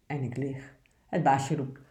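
steady, obedient picture-book reading; poem read aloud. Acted. Presenter reads the good dog poem aloud, earnest reading.

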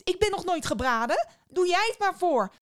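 put-on high, bright boy's plea; mock-innocent boy. A narrator's reading. Boy innocently asks the witch to show him. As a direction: act naive to trick her.

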